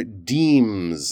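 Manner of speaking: deems with a long EE vowel; long E sound. Shown as a demonstration. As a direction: hold the ee in deems. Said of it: "You need that long E sound there".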